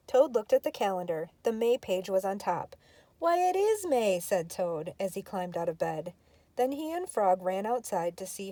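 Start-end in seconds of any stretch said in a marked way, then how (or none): 3.2-4.2 surprised. Acted. Toad amazed it's May.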